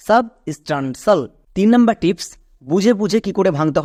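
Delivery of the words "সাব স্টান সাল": সাব স্টান সাল run on as one word; whole-word teaching model; joined-up pronunciation. Shown as a demonstration. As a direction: blend সাব স্টান সাল without long pauses. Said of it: "একসঙ্গে উচ্চারণ করো".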